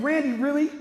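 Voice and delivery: high, loud exasperated question; incredulous protest. Retold or imitated. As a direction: call out a friend in mock disbelief. Retold protest at expensive burger order.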